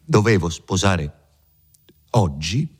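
a touch of emotion, understated; voice moved. Acted. Renzo telling of his lost wedding, mildly moved. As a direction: let the voice catch slightly. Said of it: "la voce di Renzo si commosse".

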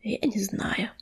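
hushed, near-whispered candour; very soft, frank reply; honest admission. A narrator's reading. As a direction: admit it softly and simply. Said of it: "честно ответил Огнезвёзд".

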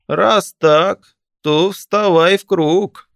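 put-on high, loud, slow old man's cry; creaky old corpse shouting. A narrator's reading. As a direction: call him into the circle. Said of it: "крикнул мёртвый старик".

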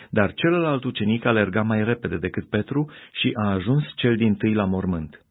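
ordinary delivery, nothing marked

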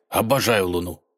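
ordinary delivery, nothing marked

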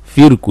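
فرك as firkun; فرك opening on "fir"; kasra on the fa. Shown as a demonstration. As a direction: say فرك with a short "i" after the f. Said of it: "بالكسر".

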